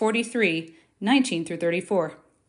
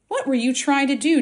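a sharp demand, pitched high and louder; 6 semitones higher, 4 dB louder than usual. A narrator's reading. Joseph's stern demand to his brothers. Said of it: "Joseph demanded".

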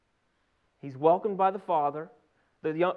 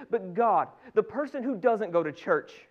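louder acted appeal to God; aggrieved protest; 5 dB louder, slower than usual. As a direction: object to the unfairness. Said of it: "Has something ever been unfair".

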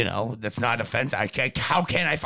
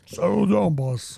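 Andre the Giant impression; slower than usual. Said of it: "Could that be the Andre the Giant voice".

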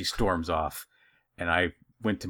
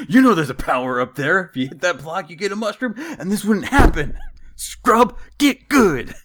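higher, louder smug taunt; taunting gamer; 11 semitones higher, 10 dB louder than usual. Acted. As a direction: rub the loss in like a gamer. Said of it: "taunting gamer".

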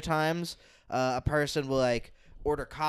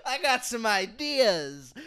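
barge in demanding a slot; crazy guy voice; 6 semitones higher, slower than usual. Pretend. Imagined crazy man in a bad shirt demanding stage time. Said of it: "crazy person ... going".

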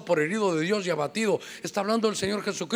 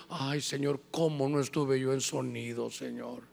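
lament; 5 semitones lower, 7 dB quieter than usual. Retold or imitated. Retold lament prayer.

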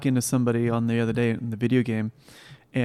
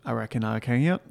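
Southern accent. Shown as a demonstration. Man asked to do an accent, mild Southern. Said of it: "can you do a Southern accent?".

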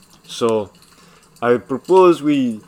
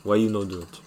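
put-on Ukrainian accent; 3 semitones lower than usual. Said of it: "respond in the same accent".

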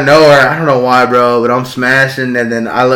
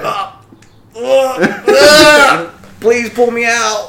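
mock panic; 9 semitones higher, much slower than usual. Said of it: "I was like".

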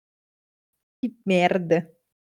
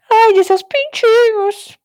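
laughing; 9 semitones higher, slower than usual. Real, not acted. Laughing at the witch's pet name.

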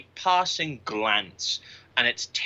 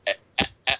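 mock stammering; much faster than usual. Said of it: "She went".

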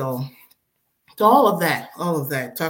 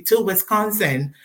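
pleading; 7 semitones higher, 4 dB louder than usual. Retold or imitated. Pleading with husband retold.

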